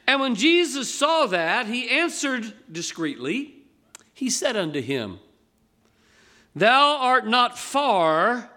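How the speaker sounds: slow, weighty scripture reading to the congregation. Acted. Preacher reads Mark twelve to the congregation, solemn and measured. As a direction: let each verse land with gravity.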